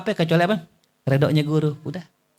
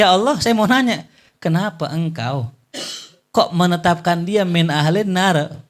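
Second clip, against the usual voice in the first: puzzled angel; 3 semitones higher than usual. Acted. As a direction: press the question like a baffled angel. Curious angel asks again.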